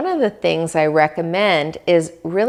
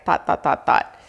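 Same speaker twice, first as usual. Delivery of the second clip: whispered thoughts; faster than usual. Shown as a demonstration. Mimics endless stream of thoughts.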